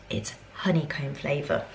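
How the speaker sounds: whisper. Real, not acted. Showing ice cream to camera.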